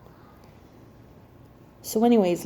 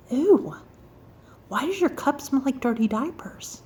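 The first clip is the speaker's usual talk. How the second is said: higher-pitched grossed-out question; mock disgust; 4 semitones higher than usual. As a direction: recoil from a bad smell. Retold disgust at smelly cup.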